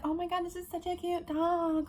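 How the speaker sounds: high, drawn-out mock coo; gushing over a dog. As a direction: gush obliviously in a high, slow voice.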